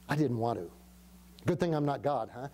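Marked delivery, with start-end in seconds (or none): 1.5-2.5 chuckling. Real, not acted. Pastor jokes about his own anger.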